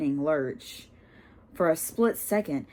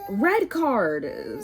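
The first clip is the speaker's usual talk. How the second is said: furious; 4 semitones higher than usual. Acted. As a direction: insist angrily on it. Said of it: "said Dean furiously".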